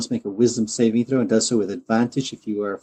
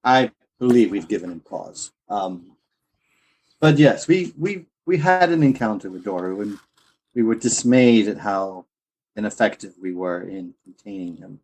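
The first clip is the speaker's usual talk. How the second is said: charming nobleman. Acted. Player voices noble character.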